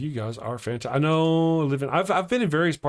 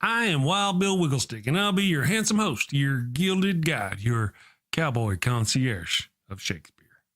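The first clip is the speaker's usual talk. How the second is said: Wild Bill character. Acted. Character introduces himself.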